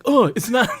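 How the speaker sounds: high, loud mocking whine; whiny troll voice. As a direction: voice a complaining commenter. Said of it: "what voice is playing in your head".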